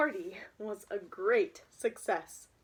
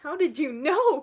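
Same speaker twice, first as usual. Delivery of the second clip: louder, higher surprised question; surprised cry; 4 semitones higher, 10 dB louder than usual. Acted. Harriet caught by the orca, surprised cry. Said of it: "cried Harriet".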